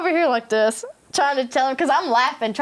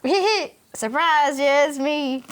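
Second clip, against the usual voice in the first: sheepish giggle; 3 semitones higher, much slower than usual. Retold or imitated. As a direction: play it caught-out and coy. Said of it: "And I was like".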